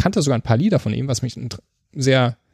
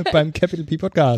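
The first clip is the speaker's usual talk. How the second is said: Berlin street slang; 3 semitones higher than usual. Pretend. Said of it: "Ist halt Berlin".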